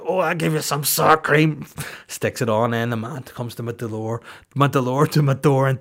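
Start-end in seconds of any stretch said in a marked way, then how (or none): 0.1-1.7 higher, louder suggestive line; hammed-up flirt with the delivery guy; innuendo voice. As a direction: camp it up with innuendo. Innuendo reply.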